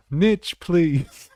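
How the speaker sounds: high, loud "Niche" as nitch; mock American niche. Shown as a demonstration. Teasing with the American "Niche" pronunciation, loud and high. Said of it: "start calling it ni-, niche".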